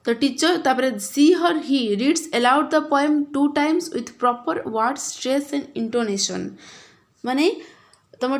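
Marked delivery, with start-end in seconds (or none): 1.0-6.4 slow, deliberate reading of the English instructions; slow textbook reading. Shown as a demonstration. Teacher reading the activity text to the class, slow and deliberate. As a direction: read each word out slowly for the pupils.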